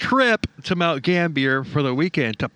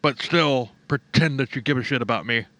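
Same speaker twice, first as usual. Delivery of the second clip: mocking sulky voice. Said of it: "total narcissist bullshit".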